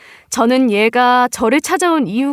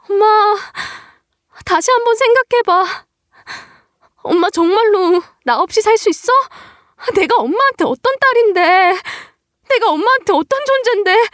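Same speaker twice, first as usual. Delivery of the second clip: put-on lightly raised, pleading young daughter voice; a hint of a desperate daughter begging her mother; 10 semitones higher than usual.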